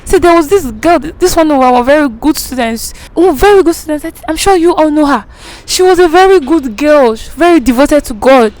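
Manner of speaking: lightly hammed-up moralizing preacher; mock preaching. Preacher shames the girl, mock solemn sermon.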